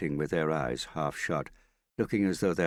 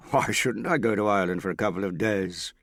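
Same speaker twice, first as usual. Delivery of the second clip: impatient; 5 semitones higher, 5 dB louder than usual. A narrator's reading. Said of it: "he asked impatiently".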